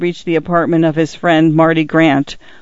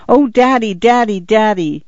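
excited; 5 semitones higher than usual. Acted. Daughters fling arms about him.

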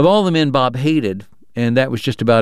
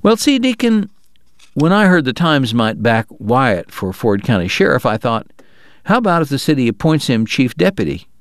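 Bob, persuasive. Acted. Bob pitching Wyatt to the players, light folksy persuasion. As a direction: sell the idea like a folksy schemer.

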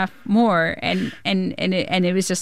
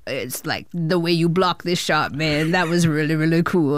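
Adam Sandler; 4 semitones lower than usual. Retold or imitated. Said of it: "he's like".

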